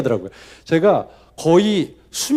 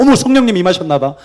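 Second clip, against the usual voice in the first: louder, gushing mock piety; teen faking rapture at revival, louder; mock pious gush; 6 dB louder than usual. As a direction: fake holy delight, played up. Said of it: "그렇게 생각을 했거든요".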